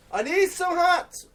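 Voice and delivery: very high, slow squeaky shopper; mock hat shopper. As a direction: squeal it like a cartoon buyer. Mimics the hat seller.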